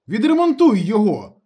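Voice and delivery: high, loud, stretched shout; exasperated full shout; angry yelling. A narrator's reading. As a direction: yell the order impatiently. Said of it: "закричав йому Ніколаєч".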